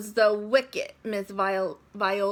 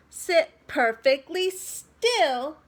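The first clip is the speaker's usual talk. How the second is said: stern teacher; 5 semitones higher, 5 dB louder than usual. A narrator's reading. Strict teacher gives orders.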